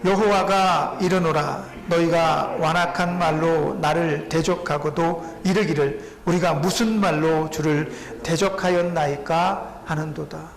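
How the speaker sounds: slow, solemn reading of scripture; measured scripture recitation. Real, not acted. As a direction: read the verse aloud slowly with the congregation. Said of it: "시작".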